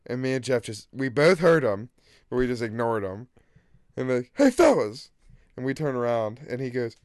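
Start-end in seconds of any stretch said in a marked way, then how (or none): 4.3-5.1 high, louder hail to passing strangers; calling out. Retold or imitated. Street hustler hailing two passers-by, calling out. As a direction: call after two guys walking off. Stranger calls after them.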